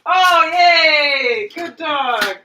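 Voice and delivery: high, loud cheer for the dog; excited dog praise. Real, not acted. Dog does trick, cheering.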